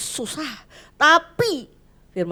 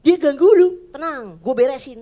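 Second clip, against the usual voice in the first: higher, louder, eager tough-guy promise; God as a streetwise buddy; 5 semitones higher, 10 dB louder than usual. Pretend. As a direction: play God as a mate ready to sort them out. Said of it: "saya pinginnya yang tadi itu". (Tuhan dibayangkan seperti teman preman, keras dan bersemangat)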